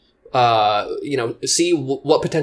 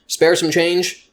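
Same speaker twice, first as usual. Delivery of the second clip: slow, drawn-out spare some change; quoting the setup slowly; slowed setup line; 4 semitones higher, much slower than usual. Shown as a demonstration. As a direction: lay out "Spare some change" slowly, each word apart. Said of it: "that was the starting point".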